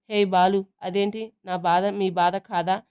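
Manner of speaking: teasing, stretched-out mock sympathy; sing-song mockery of a dramatic line. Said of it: "వెక్కిరిస్తుంది Chitti".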